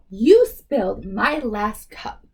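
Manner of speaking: an upset kid's mock shout; yell. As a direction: scold the girl, stretched out. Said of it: "I yell".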